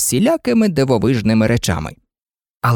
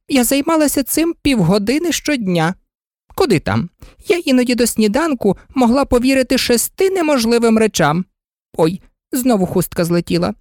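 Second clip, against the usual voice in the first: high, fluttering queen pleading; fussy queen; 9 semitones higher than usual. A narrator's reading. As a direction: coax her high and anxiously out of tears. Queen voice in story.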